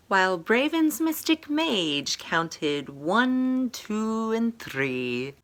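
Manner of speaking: lilting read-aloud of a rhyming tale; storybook narration. A narrator's reading. Author reading her rhyming fantasy book to viewers, storybook narration. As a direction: read it like a bedtime story to children.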